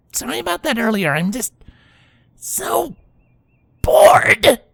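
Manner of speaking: "so" drawn high and "bored" hit hard; stress on so bored. Acted. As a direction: stretch "so" and punch "bored". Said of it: "emphasis on the last two words".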